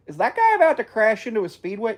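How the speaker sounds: sudden high-pitched alarm; startled surprise. Real, not acted. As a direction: caught off guard by the crash. Watching a crash on screen.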